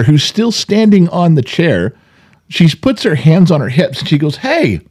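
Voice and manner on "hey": put-on high, slow indignant child; defensive little girl. Granddaughter confronting a fan about her grandfather, high indignant child voice. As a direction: hands on hips, protective of grandpa. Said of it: "Got a little defensive".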